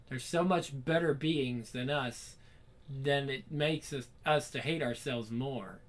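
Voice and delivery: slow, stumbling first read, words garbled; slow stumbling read of a garbled line; halting slow misread. Shown as a demonstration. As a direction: feel your way through the line haltingly, stalling on makes us.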